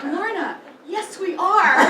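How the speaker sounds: laughing loudly through a dry reply; amused retort to the mother-in-law, laughing. Retold or imitated. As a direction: crack up while agreeing. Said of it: "And I'm like".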